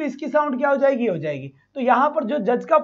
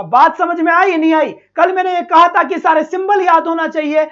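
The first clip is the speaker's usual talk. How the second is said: louder, firmer teacher's rebuke; stern, raised teacher voice; raised scolding voice; 2 semitones higher, 5 dB louder than usual. Real, not acted. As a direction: scold the class for not learning symbols. Teacher scolding class for not memorizing.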